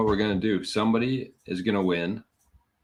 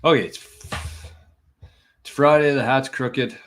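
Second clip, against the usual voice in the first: "Friday" higher and louder, pumped up; energetic restart; 5 semitones higher, 5 dB louder than usual. Real, not acted. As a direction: relaunch the show, "it's Friday" with a punch.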